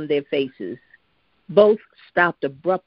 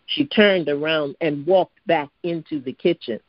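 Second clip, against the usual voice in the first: ordinary delivery, nothing marked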